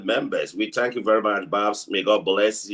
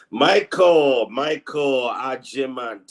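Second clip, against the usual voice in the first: calling out; 2 semitones higher, slower than usual. Real, not acted. Calls out a viewer's name.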